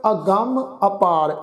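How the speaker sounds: ਅਗੰਮ said "agamm" with a nasal ga; nasal pronunciation. Shown as a demonstration. Teacher shows the class the nasal ਅਗੰਮ. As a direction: nasalize ਅਗੰਮ, stress the doubled m. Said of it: "ਨਾਸਿਕ ਉਚਾਰਨ ਕਰਾਂਗੇ".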